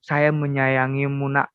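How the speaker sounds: lightly voiced God, low and unhurried; slow down gently, as a father to a child; God speaking tenderly. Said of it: "Tuhan bilang begini". (suara Tuhan yang lembut dan pelan)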